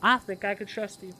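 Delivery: Southern mama accent, lightly put on. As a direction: play a motherly Southern woman. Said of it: "southern mama accent".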